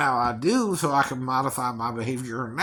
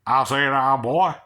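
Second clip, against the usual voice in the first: Southern accent; 5 dB louder than usual. Shown as a demonstration. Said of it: "Not that I can't do the accent".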